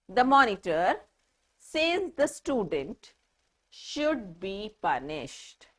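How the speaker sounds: the student is talking about the monitor, so pause there; pauses for meaning. Shown as a demonstration. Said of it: "can you just see the way I am speaking, the pauses that I am taking".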